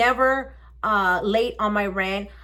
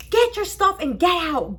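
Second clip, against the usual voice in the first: imitated eviction order; 7 semitones higher than usual. Officer orders her out.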